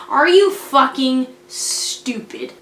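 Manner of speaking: slow, drawn-out disbelief; incredulous scolding. Real, not acted. Host scolding a reckless character, incredulous. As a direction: stretch out each word in exasperation.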